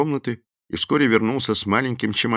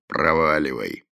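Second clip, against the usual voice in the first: grumbled; 3 semitones lower than usual. A narrator's reading. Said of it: "буркнул Делани".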